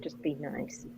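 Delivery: soft whispered plea. Retold or imitated. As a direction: whisper it to the others. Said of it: "I just whispered".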